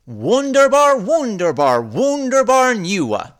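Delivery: high loud group-style cheer. Acted. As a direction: cheer it out like a happy class. Class cheers together.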